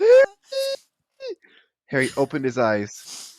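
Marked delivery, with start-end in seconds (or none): 0.0-1.4 calling out. Acted. Calling Harry awake.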